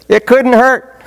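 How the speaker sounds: put-on Jewish accent. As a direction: imitate a joking man in a Jewish accent. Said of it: "In his best Jewish accent".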